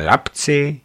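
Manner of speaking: delighted, drawn out slow; slow, delighted praise of the driver; enthusiastic. Acted. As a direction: savour the words with glee. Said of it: "řekla pak nadšeně".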